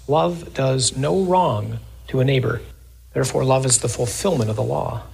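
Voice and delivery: measured, solemn scripture reading. Acted. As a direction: read it out to the congregation. Reads scripture in sermon.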